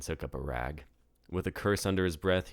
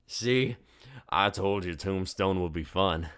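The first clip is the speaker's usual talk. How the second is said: put-on slightly louder, higher young tourist; eager young tourist; college kid; 3 semitones higher, 5 dB louder, slower than usual. A narrator's reading. Tourist kid telling friends, higher and louder.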